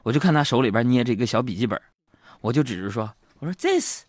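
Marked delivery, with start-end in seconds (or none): 3.5-4.0 slow broken English. Retold or imitated. Pointing, broken English to foreigner.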